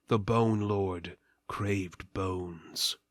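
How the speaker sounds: usual speaking voice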